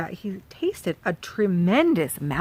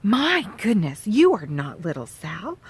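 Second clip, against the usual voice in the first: breathless gasp; 4 dB louder than usual. Acted.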